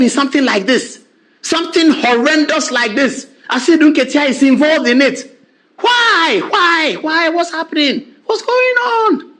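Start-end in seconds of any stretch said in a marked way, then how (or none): 5.8-9.3 high, disbelieving repeated questions; rising outrage at the scandal; incredulous outcry. Real, not acted. Host's incredulous rhetorical questioning.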